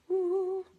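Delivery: high-pitched little whoop; excited woo. Real, not acted. Crafter cheering the coming album retreat, excited whoop. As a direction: let out a high, happy "woo". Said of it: "It's very exciting stuff".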